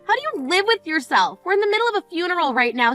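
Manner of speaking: stunned fury at her selfishness; outraged disbelief. Acted.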